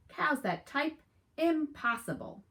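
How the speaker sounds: high, incredulous exclamation; as if the idea is absurd; disbelief. Acted. Farmer can't believe his ears.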